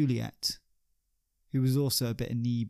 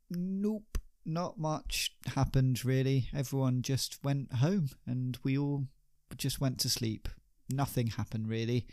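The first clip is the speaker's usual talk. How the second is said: shifty denial. Acted. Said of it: "Ben is a terrible actor".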